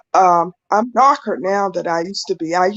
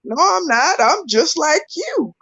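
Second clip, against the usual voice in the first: protesting; 6 semitones higher than usual. Retold or imitated. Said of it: "and I'm like".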